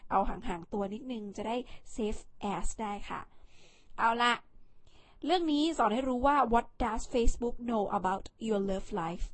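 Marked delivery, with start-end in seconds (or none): 6.5-9.2 Thai-accented English question, a bit flat; a first try at the English that misses the accent; clumsy English accent. Shown as a demonstration. Vlogger reading a stat title aloud, clumsy Thai-accented English. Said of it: "เอ้ย สำเนียงไม่ดี เอาใหม่".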